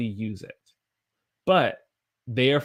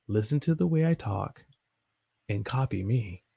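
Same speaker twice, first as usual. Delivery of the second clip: measured announcer voice, lifted then dropping; smooth radio presenter delivery. Shown as a demonstration. Teacher tells learners to copy her, radio voice. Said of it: "That is my radio voice".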